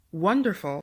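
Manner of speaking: "wonderful" with the first syllable stressed, WON-derful. Shown as a demonstration. Teacher giving quiz answer number four, WON stressed in "wonderful". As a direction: lean on WON, let the rest of "wonderful" fall. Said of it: "the W O N is stressed".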